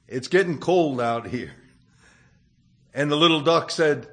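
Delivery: put-on gentle storytelling voice, reading to children; story narration. A narrator's reading. Preacher tells a children's fable to the congregation, gentle storytelling.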